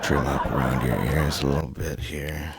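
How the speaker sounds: a lightly voiced barber, intimate and close; haircut role play. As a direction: murmur to the client like a gentle barber. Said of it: "what does getting a haircut sound like".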